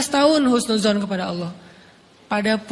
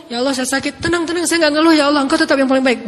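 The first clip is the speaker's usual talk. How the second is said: reassuring prayer; 5 semitones higher, faster than usual. Retold or imitated. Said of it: "seolah-olah mau ngomong".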